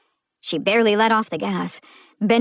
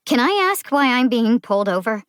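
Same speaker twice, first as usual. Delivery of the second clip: raised, impatient demand; impatient question; 5 semitones higher, 5 dB louder than usual. Acted. Driver pressing the cop, impatient and raised. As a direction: patience wearing thin, pushing back. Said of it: "patience waning".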